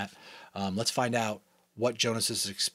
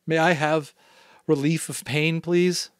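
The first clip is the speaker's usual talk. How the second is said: put-on pleading boy, higher and louder; begging; 6 semitones higher, 5 dB louder, slower than usual. A narrator's reading. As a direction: beg the giver for relief. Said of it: "he begged".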